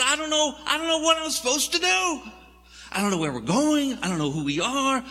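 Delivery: high, complaining Moses voice; a fretful leader griping upward; whining Moses. Acted. Moses complaining to God about the journey, high whiny gripe.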